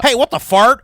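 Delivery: mock indignant outburst. Comic imitating an upset performer, mock outburst. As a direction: blurt it out in hammed-up indignation. Mocking a comedian going on stage.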